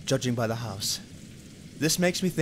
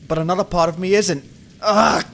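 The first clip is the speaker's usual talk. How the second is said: frustrated groan; 5 semitones higher, 9 dB louder than usual. Acted. Detective torn.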